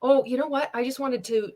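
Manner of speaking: natural, easy talk to a friend; demonstrating an unforced, conversational pitch; casual phone chat. Shown as a demonstration. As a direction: say it like you're phoning a friend. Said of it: "how would you speak if you were on the phone to your friend".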